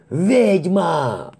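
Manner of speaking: high, loud scream of fear; terrified howl. Acted. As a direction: point and wail in terror. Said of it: "взвыл ближайший матрос".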